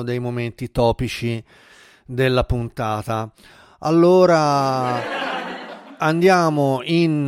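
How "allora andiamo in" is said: laughing. Real, not acted. Laughing after sound effect.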